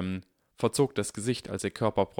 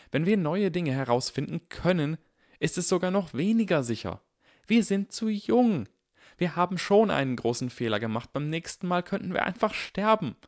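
high, loud, scared pleading; frightened pleading; 10 semitones higher, 3 dB louder than usual. Acted. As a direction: beg him, scared for their lives.

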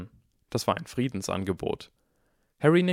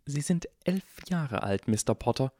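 gruff whisper; 6 semitones higher than usual. A narrator's reading. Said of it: "sagte sie in einem barschen Flüstern".

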